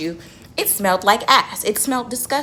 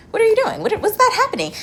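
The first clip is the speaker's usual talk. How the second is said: high, loud call across the street; 13 semitones higher, 3 dB louder than usual. Retold or imitated. Spotting a man picking through the trash, calling out loud and high. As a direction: shout over to him, pitched way up.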